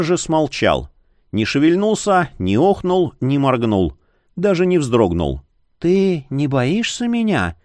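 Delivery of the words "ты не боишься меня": slow, wondering witch voice. A narrator's reading. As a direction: ask slowly, surprised. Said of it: "спросила колдунья". (удивлённый голос колдуньи)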